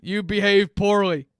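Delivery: lightly voiced mall Santa, a bit scratchy. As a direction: play a grumpy smoker Santa, only slightly put on. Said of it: "I don't know what this accent is that Santa is using".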